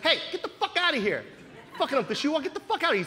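lightly acted angry salesman; cursing salesman. Salesman chasing a kid off the shoe wall, mock-angry cursing. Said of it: "He's cursing at me".

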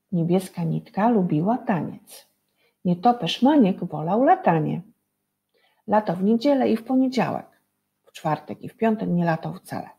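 put-on lively rhythmic rhyme for children; poem reading. Reads a short rhyme aloud.

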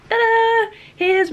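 drawn-out high ta-da; slow showy fanfare. Acted. Presenting messy bedroom.

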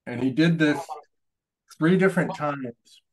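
talking around a paintbrush; words muffled by a brush in the mouth; mouth full. Real, not acted. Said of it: "Sorry, I have a paintbrush in my mouth".

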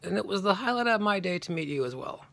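high-pitched imitation of calling out; mock yell. Actor calling back to a fan while driving away, mock yell. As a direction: call it back as if from a car window, not full volume. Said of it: "he yells out of his window".

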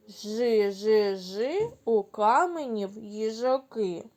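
mildly sad, subdued. Shown as a demonstration. Teacher repeats the sad chant with kids. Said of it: "Сумно".

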